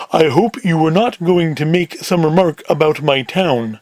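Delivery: slow, lightly voiced heavy; a hint of slow warning in character. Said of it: "Big Sam in the deeper voice".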